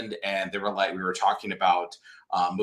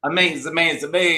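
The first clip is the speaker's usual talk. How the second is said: lightly imitated character catchphrase, raised pitch; a fan's higher-pitched take on an alien's catchphrase; Rocky impression; 6 semitones higher than usual. Fan quoting a favourite film character, light higher-pitched imitation. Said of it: "I am such a Rocky fan now".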